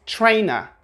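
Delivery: "trainer" ending in "uh", no R; British non-rhotic "trainer"; schwa ending. Shown as a demonstration. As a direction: say "trainer" as "tray-nuh". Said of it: "we have this schwa sound".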